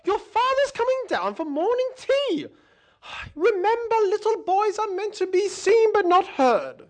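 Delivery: a hint of a stern posh mother; scolding mother. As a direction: tell the boy off primly. Posh mother scolds her son.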